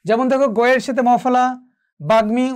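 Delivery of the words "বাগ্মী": বাগ্মী said as bag-mi, with the m sounded; m fully pronounced. Shown as a demonstration. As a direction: split বাগ্মী after the g, then a clear m. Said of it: "উচ্চারণ হয়েছে".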